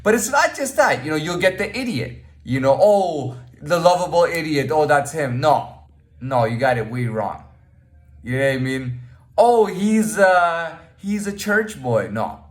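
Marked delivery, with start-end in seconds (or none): 2.8-5.4 higher-pitched mock recognition; mimicked snap judgement. People wrongly pegging him as an idiot, mock recognition. 9.4-12.1 high, drawn-out mock guessing; mimicked snap judgement. People wrongly labelling him a church boy, mock guessing.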